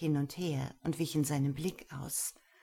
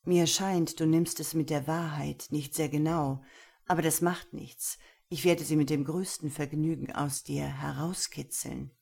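stern master. Acted. Gero sets his rules for Lena, stern and measured.

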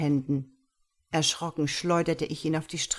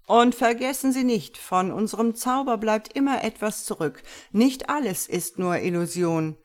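raised showman's voice, starting high and loud; calling into auditorium; 5 semitones higher, 5 dB louder than usual. A narrator's reading. Magician addresses the auditorium at show's end, stage call. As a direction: proclaim it grandly to a whole hall. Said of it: "rief Prosperino ins Auditorium".

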